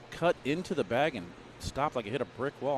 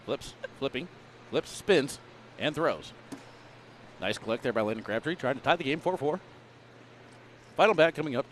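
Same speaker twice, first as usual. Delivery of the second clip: put-on old-time baseball announcer; 2 semitones higher than usual. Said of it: "nineteen sixties baseball announcer voice there".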